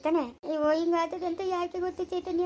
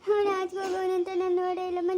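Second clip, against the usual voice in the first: tearful crying. Acted. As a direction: let the tears catch in every word. Grandmother upset after family accusation.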